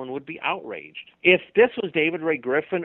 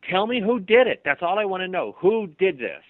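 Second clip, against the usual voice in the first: higher, louder frustrated pleading; frustrated demand; 4 semitones higher, 5 dB louder than usual. Pretend. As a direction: press them hard, getting fed up. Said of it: "you're starting to get a little frustrated".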